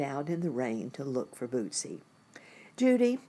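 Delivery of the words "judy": louder high call of a name. Acted. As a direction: call her name over the rain. Mother calling in the rain.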